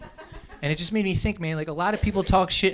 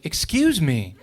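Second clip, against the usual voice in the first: quicker excuse me, falling sharply on ME; offended excuse me; slower than usual. Acted. Lady objecting that he's in her space, affronted. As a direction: object as if someone is blocking you. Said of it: "she would have been in my way".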